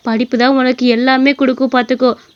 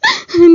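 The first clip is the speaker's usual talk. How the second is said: sob; 3 semitones higher than usual. Acted. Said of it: "அவங்க அம்மா அழுதுட்டு இருந்ததை".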